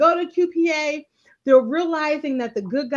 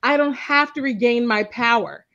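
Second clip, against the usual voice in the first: a hint of a commanding father, swelling louder on true power; imitating Papa Pope; 4 dB louder than usual. Podcaster quotes Papa Pope's original line to co-host, lightly commanding. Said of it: "The original quote from Papa Pope was".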